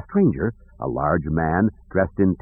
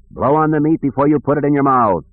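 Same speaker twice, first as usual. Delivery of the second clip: higher-pitched king voice; lightly voiced kindly king; 6 semitones higher than usual. The king to two hungry children, lightly voiced king. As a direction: give the king a lifted, instructing tone.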